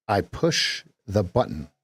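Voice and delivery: the word the leaned on, falling end; stress on THE. Shown as a demonstration. Trading coach demos stress on the. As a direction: hit the. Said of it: "we could put an emphasis on any syllable".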